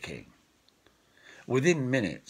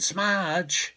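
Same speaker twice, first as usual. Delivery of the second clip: calling a name across a yard, louder; 11 semitones higher, 5 dB louder than usual. Acted. Prince calling out for his lost pony, loud. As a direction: call the pony's name out loud.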